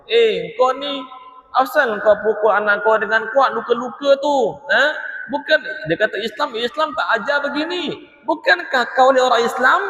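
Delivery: high, indignant rebuke; scolding neighbour. Acted. Neighbour scolding the father for beating his son, indignant.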